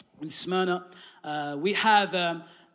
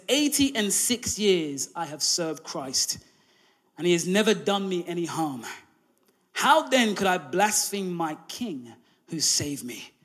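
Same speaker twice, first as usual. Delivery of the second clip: reverent martyr's words; 3 semitones lower than usual. Retold or imitated. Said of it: "These are the words that Polycarp said".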